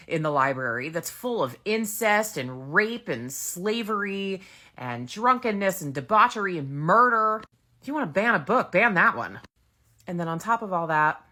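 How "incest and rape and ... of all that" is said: outraged. Real, not acted. Outraged rant about book bans.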